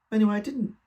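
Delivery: sudden high, loud "Anyway"; high loud exasperation; exasperated outburst. Acted. Exasperated outburst mid story.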